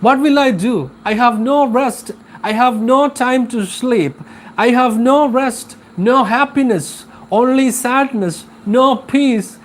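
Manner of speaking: mildly hammed-up complaint; complaining to God. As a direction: plead and protest, hammering out each grievance. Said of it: "he was complaining to God".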